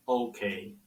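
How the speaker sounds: soft unsure "Okay"; hesitant. A narrator's reading. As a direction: trail it off, unsure.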